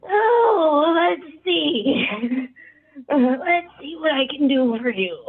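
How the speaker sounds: put-on high, creaky old gnome voice, just woken; sleepy old gnome. GM voicing the just-woken old gnome, high old voice. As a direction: waver like a drowsy old man. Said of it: "the older gnome sits up and like".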